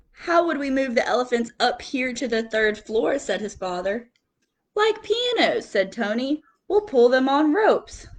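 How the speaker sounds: lively picture-book reading with quote voices; reading to children. Acted. Teacher reading picture book to class, lively storytelling. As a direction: read it like story time for little kids.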